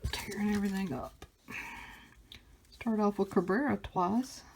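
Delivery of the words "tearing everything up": whispering. Real, not acted. Pack tearing.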